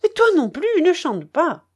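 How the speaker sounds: high, loud furious retort. Acted. Charcot throws the narrator's words back, furious and loud. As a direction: hurl the words back at him in fury. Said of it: "reprit-il d'un ton furieux".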